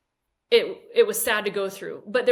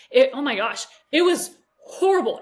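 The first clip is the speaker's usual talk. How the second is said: emotional outburst; 3 semitones higher, 6 dB louder than usual. Real, not acted. Reliving painful divorce memory.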